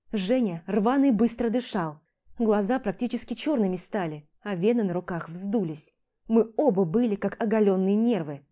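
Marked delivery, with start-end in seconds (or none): none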